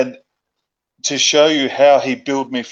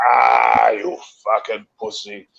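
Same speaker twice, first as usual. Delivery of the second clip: imitating George's taunt. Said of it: "you hear George".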